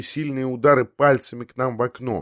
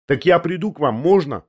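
higher, timid little request; hurried babble; 5 semitones higher than usual. Acted. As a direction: ask it hastily in a raised voice. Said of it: "пролепетал мне наскоро Тришатов".

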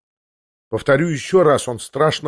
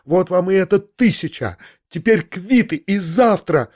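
yelling; 5 semitones higher than usual. A narrator's reading. Still yelling, throwing the money.

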